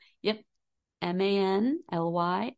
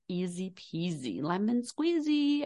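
put-on childish sing-song. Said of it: "as my five-year-old would say".

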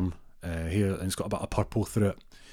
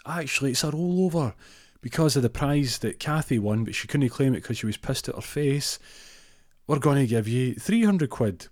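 bingo caller announcing; 6 semitones higher than usual. Retold or imitated. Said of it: "but he goes".

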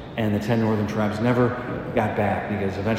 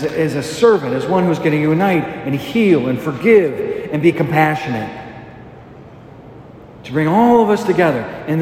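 raised, driving sermon delivery with punched key words; emphatic preaching. Real, not acted. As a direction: preach it with conviction, leaning on each phrase.

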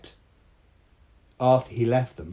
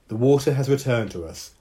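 intoned; 4 semitones higher, 5 dB louder than usual. A narrator's reading. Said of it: "Dao intoned".

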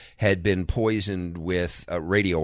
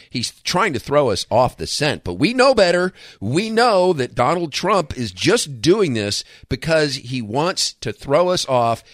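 mock conspiracy voice; 8 semitones higher, 5 dB louder than usual. Mocking media conspiracy talk.

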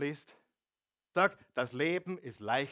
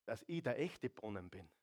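quiet; 6 dB quieter than usual. Acted. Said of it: "und sagte zu ihr".

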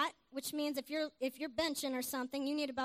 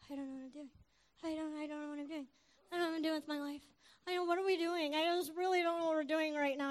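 hammed-up lost and upset; imitated helpless fretting; mildly distraught; 3 semitones higher, faster than usual. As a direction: play a man falling apart, mildly. Acts out a lost, upset pharmacist.

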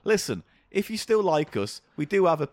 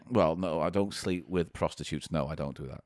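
character voice; 10 semitones lower, 6 dB quieter than usual. Acted. Shopkeeper voice, very low.

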